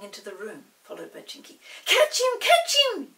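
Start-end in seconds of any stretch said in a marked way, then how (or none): 1.8-3.1 loud, high shout; yelling. A narrator's reading. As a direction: call out in the chase. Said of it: "yelled Chinky".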